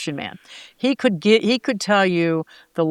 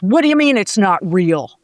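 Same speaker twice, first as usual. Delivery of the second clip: louder, offended challenge; offended wrestler; 6 dB louder than usual. Retold or imitated. Wrestler told his sport isn't real, louder offended. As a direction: take it as a personal insult.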